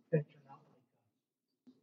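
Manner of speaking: sneering Pharisee. Retold or imitated. Voicing the Pharisees' exclusion.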